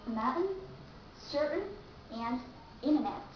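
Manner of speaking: mountain, certain, internet with no T sounded; dropped T. Shown as a demonstration. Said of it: "drop out letter T".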